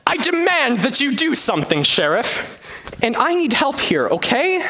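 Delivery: high, insistent demand; a high, pushy lady voice. Acted. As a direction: push him, high and bossy. Marian demands help from Sheriff.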